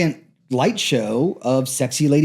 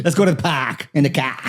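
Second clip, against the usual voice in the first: laughing. Real, not acted. Laughing through a silly line.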